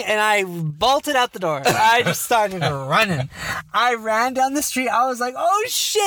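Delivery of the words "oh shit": mock panic. Retold panic while running.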